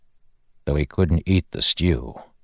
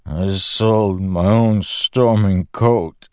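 bitter shame; 3 semitones higher, 3 dB louder, much slower than usual. Acted. Teft's shameful confession.

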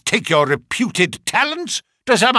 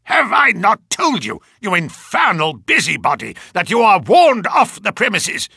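put-on loud, raging old colonel; furious shout; 5 semitones higher, 4 dB louder than usual. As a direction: bellow the threat at the intruders. Furious old colonel ordering them out.

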